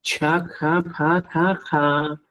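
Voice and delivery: "chacapataja" very slow with a puff of breath after ch, k, p, t; aspirated stops. Shown as a demonstration. Teacher demonstrates aspirated stops for his class. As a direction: breathe out hard on each stop of "chacapataja". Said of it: "Los aspirados, sí".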